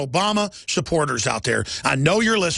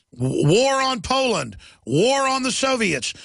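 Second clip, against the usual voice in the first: building war rant; 8 semitones higher, much slower than usual. Real, not acted. Ranting escalating list of wars.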